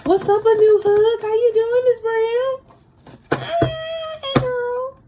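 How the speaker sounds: very high, loud, squealing greeting; excited squeal. Pretend. Greeting Miss Brown in chat, squealing very high and loud. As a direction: squeal hello like you're thrilled.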